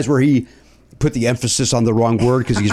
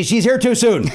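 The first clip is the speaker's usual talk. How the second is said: mock listener thought; 8 semitones higher than usual. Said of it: "I know you're thinking".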